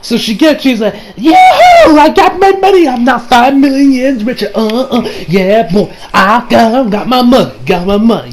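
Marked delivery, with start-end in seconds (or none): 1.2-8.3 yelped high yahoo, then a hyped gloat that settles down; mock celebrating. Shigechi celebrating his cash, hammed-up high whoop. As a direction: whoop like you hit the jackpot. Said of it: "he's celebrating shit".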